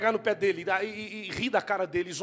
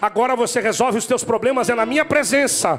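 preaching at full force; 5 semitones higher, 9 dB louder than usual. Acted. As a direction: build it into a roaring sermon climax. (pregação inflamada, alta e aguda)

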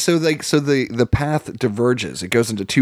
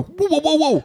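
high alarmed whoa, whoa. Retold or imitated. Dad stopping his daughter shaking the bottle, high alarmed whoa. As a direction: stop her before she shakes it. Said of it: "and I go".

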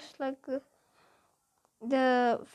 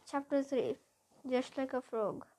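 usual speaking voice

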